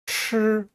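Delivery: 吃 with the tongue curled back, held level; curled-tongue sound. Shown as a demonstration. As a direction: say 吃 as a retroflex first-tone syllable. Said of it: "저를 고부리고 발음합니다". (吃를 혀를 구부려 발음)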